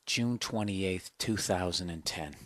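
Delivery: hushed early-morning voice, holding it down; whispering. Real, not acted. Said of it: "Because I am fucking whispering".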